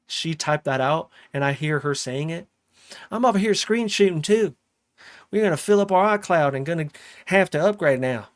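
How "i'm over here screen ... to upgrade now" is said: higher, louder, mock reading of a viewer's message; imitating the chatter's voice. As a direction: read the message the way you imagine she'd say it. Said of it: "I'm gonna read it how I think that she's".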